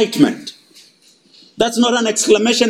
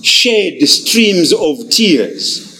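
very slow, mournful; slow sorrowful reading; 4 semitones lower, much slower than usual. Acted. Preacher reading the psalmist's lament slowly. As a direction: read the verse slow and heavy. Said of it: "Psalm one nineteen, verse one three six".

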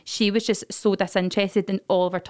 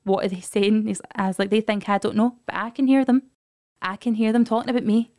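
put-on paranoid drunk shout. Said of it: "I think I'm whispering, but I'm shouting".

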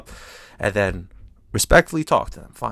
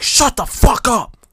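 mock angry old lady; 11 semitones higher, 5 dB louder, slower than usual. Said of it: "And she's like".

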